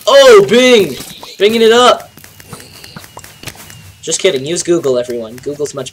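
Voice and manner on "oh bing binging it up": mock Bing jingle. Mock search engine jingle.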